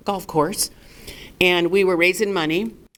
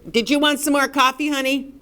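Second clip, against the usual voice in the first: high, sing-song waitress voice; a server cutting in on the meeting, pitched high and sweet; 7 semitones higher than usual. Retold or imitated. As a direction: chirp it like a server topping up coffee. Waitress interrupts donor meeting.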